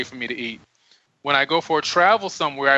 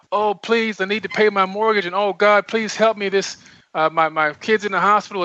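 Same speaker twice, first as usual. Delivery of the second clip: mock begging prayer, pitched up; begging, pleading; 4 semitones higher than usual. Someone praying to God for money and help, mock pleading. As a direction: plead for help in a mildly acted, higher voice. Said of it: "if you're begging and pleading".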